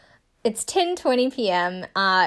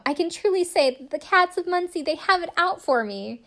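mock solemn quote; 9 semitones higher than usual. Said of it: "she says".

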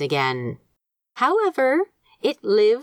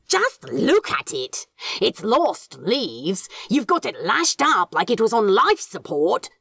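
exasperated, higher voice for Crowley; exasperated demon voice; 4 semitones higher than usual. Acted. Crowley scolding Aziraphale over the plant, exasperated.

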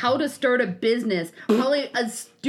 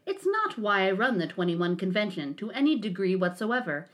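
lowered smug self-important voice; mock him with a lowered smug drone; Anthony Dream Johnson voice. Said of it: "Let me try to get my Anthony Dream Johnson voice".

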